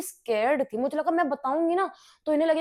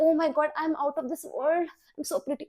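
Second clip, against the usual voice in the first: dreamy self-admiration; 4 semitones higher, much slower than usual. Retold or imitated. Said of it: "मुझे लगता है".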